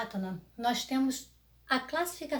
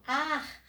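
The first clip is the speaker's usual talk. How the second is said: ar said more firmly, as the stressed syllable of árvore; stronger syllable; 4 semitones higher than usual. Shown as a demonstration. Teacher showing the tonic syllable, stronger ar. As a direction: put the weight on ar. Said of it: "como mais forte".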